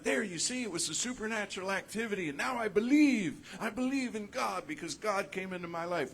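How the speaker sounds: high, eager, fast gushing; hammed-up excited believer voice; mock naive believer. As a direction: play a dazzled convert proclaiming faith. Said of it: "And we're like".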